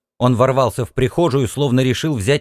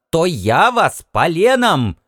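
mock threat; 5 semitones higher, slower than usual. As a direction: threaten with a log. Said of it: "закричала она".

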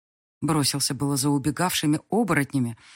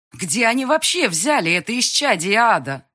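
loud, higher exasperated outcry; 6 semitones higher, 6 dB louder than usual. A narrator's reading. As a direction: vent in disbelief. Banker's exasperated outburst.

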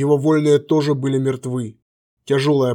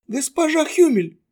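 respectful greeting; 13 semitones higher than usual. A narrator's reading.

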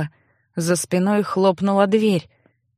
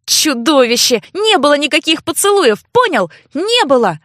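higher, louder furious denial; angry denial; 5 semitones higher, 3 dB louder than usual. Acted. Sister yells at brother that there were no kisses, furious. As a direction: hurl the denial at him. Girl denies kisses, yelling.

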